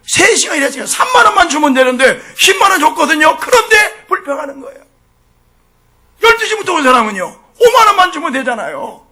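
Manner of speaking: impassioned preaching. Real, not acted. Preacher challenging the congregation over the grumbling workers, impassioned. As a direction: drive the argument home, pitch lifted.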